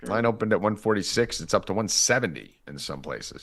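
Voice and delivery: talking through hiccups. Real, not acted. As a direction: hiccups breaking up the words. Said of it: "God, I got the hiccups now".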